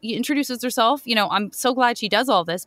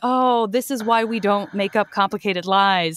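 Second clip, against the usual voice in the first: laughing. Retold or imitated. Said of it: "And you're like".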